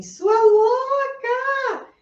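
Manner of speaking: high, drawn-out mock scream from the sole of the foot. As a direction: let the foot shriek "Sua louca!" long and high. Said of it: "a sola do seu pé tá gritando assim". (grito agudo e arrastado, de brincadeira)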